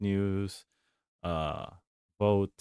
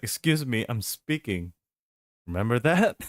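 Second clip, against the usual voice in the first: mock Kamala; 4 semitones higher, 6 dB louder than usual. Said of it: "He was like".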